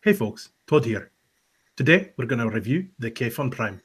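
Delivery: soft-spoken vape reviewer; Todd impression. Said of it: "That's a bit better".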